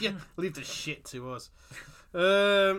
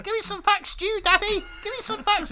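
high, loud pleading squeal; begging squeal; 8 dB louder than usual. Pretend. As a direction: beg like a desperate fan. Acting eager listeners begging.

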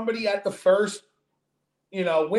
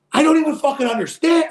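exasperated burst; 9 semitones higher, 6 dB louder, faster than usual. Real, not acted. Describing his irrational rage.

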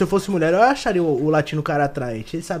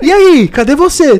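loud, high, slow pestering demand; mock an over-keen guy chasing a reply; desperate suitor; 12 semitones higher, 10 dB louder, slower than usual. Imitating a clingy guy messaging a girl, mock desperate. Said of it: "É muito desesperado".

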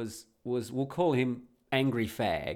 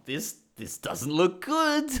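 laughing worry; 8 semitones higher, 5 dB louder, much slower than usual. Retold or imitated. Nervous joke to wife on plane.

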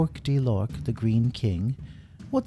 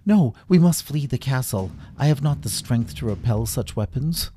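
urgent retreat order; 4 semitones higher than usual. Acted. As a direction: declare defeat with grave urgency. King orders retreat under attack.

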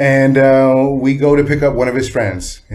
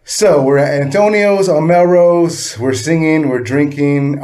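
loud, high, drawn-out excitement; excited recounting; 4 semitones higher, 4 dB louder, slower than usual. Real, not acted. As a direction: relive the party with glee. Excited drunk party memory.

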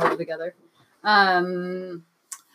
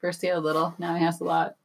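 song lyrics spoken in a deadpan monotone; 3 dB quieter than usual. Pretend. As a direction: say the lyrics instead of singing them. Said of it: "just monotone saying songs".

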